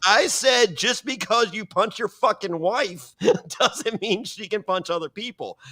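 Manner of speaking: high, slow retold comeback; emphatic angry retort. Host facing down the husband, imitated angry retort. Host repeats insult in quarrel.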